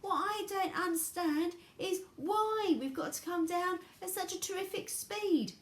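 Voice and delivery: high, loud, puzzled protest; yelling over noise. A narrator's reading. Charlie yells his question above the noise, high and loud. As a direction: push the question over a roar. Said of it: "he yelled above the noise".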